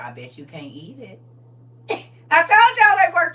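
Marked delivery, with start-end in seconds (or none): 0.0-1.2 retold whisper. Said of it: "Whispers in cousin's ear".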